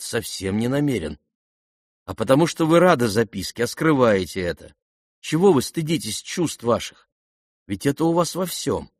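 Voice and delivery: plain reading voice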